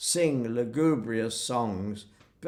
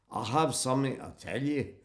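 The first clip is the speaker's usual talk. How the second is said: put-on Glaswegian accent. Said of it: "a Glaswegian Jew".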